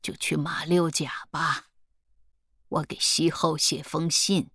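a hint of an unhurried old elder; lightly voiced family elder. Elder advising the young one to sail south, lightly voiced. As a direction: speak as the family elder, measured.

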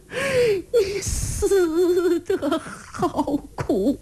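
put-on very slow high old-woman wail. Old lady wailing for her dead son, very slow. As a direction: drag out the lament.

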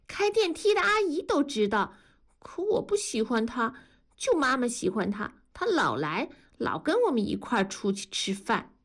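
put-on high, eager child's voice; little girl 改改. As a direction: play a delighted little girl. (高声童音，兴奋的小女孩)

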